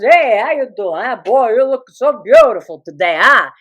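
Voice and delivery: hammed-up flirtatious greeting; flirting father. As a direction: lay on the charm, imitating dad. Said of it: "and he goes".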